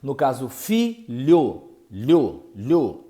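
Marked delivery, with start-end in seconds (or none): 1.9-3.1 lho said alone, the lh sound held; isolated digraph sound. Shown as a demonstration. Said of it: "é o único som". (som "lho" isolado, como em "filho")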